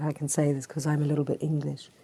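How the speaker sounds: usual speaking voice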